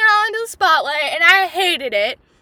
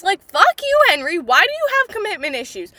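mock angry yell; 3 semitones higher, 4 dB louder, faster than usual. Real, not acted. Fan yelling at Henry for leaving Upton, mock furious. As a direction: scold him like he's right there. Yelling at a character she loves.

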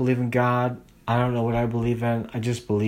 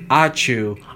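sneeze; 3 dB louder than usual. Real, not acted. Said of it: "I fucking sneezed".

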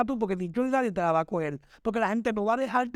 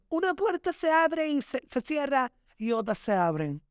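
higher-pitched quote of what people say; mock platitude; 5 semitones higher than usual. Quoting what people tell you about closed doors, mocking. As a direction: recite the saying in a higher, sing-song mock voice. Mocks a popular saying.

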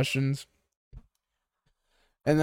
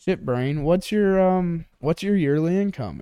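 tag; 5 semitones higher than usual. Retold or imitated. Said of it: "So this chick goes".

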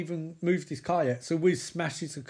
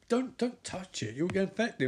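alarmed warning; 5 semitones higher than usual. Retold or imitated. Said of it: "Lawrence Fishburne's like".

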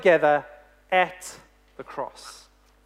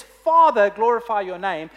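calling out to Father; 4 dB louder than usual. Acted. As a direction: cry out to heaven, then settle. Jesus calling on his Father.

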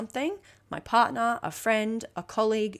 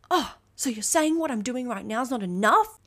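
offended; 4 semitones higher than usual. Retold or imitated. Offended reply to boss.

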